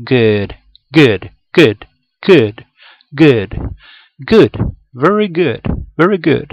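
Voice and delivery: "good" cada vez más fuerte, con la g profunda; good marcado. Shown as a demonstration. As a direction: ir subiendo hasta "very good". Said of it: "sonido como profundo de la garganta". ("good" cada vez más fuerte)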